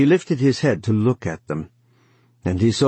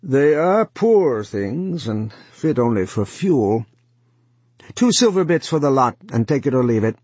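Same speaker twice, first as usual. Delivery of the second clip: 1 scornful one-eyed man; 5 semitones higher, 3 dB louder than usual. A narrator's reading. One-eyed man's dismissive offer.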